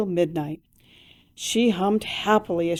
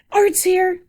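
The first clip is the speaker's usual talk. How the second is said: high excited call from the house; shouted; 11 semitones higher, 5 dB louder than usual. A narrator's reading. Mother calling Esther from inside, excited shout. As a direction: call out that he's arrived. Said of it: "Esther's mother shouted".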